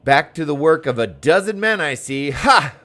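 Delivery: hearty mock-scolding greeting; jovial NPC voice. Gamer voicing a teasing game character, lightly.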